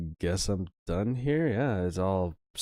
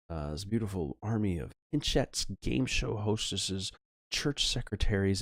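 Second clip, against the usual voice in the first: measured, theatrical game narration; story narration. Acted. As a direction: read it like an episode's closing recap.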